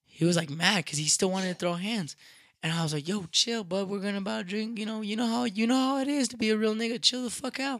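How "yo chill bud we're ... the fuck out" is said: higher-pitched plea to chill; retold calming-down. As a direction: talk a mad friend down, mildly urgent. Calming down an angry friend.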